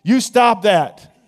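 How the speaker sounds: hammed-up magician distracting the crowd; a magician rattling off distracting patter; fast-talking magician. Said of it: "they're working a trick".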